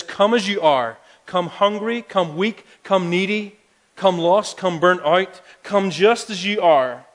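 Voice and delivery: lifted, fervent preaching of Jesus' invitation. Acted. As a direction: call out to the lost, full of conviction.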